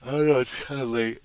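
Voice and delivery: speaking through a yawn. Real, not acted. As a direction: yawn the words out. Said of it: "See, I'm already yawning".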